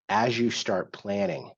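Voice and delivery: slow, deliberate weight on "planning"; stress on planning. Real, not acted. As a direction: lean on "planning", drawing the phrase out. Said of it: "I emphasize the word planning".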